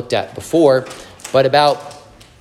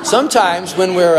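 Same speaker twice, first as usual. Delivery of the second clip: laughing; 6 semitones higher, 6 dB louder than usual. Real, not acted. Laughs at his own joke.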